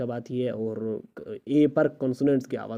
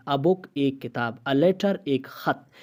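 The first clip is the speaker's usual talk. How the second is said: slow dictation; slower than usual. Shown as a demonstration. Teacher to students, dictating examples slowly. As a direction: slowly read each example and its meaning. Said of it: "اچھا، اے".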